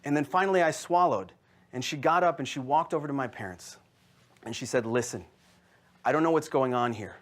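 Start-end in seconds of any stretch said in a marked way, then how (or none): 4.9-7.1 composed negotiator with deliberate pauses; cool, collected. Retold or imitated. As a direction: lay down terms to the parents, unhurried. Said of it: "she was calmer, cooler, and more collected".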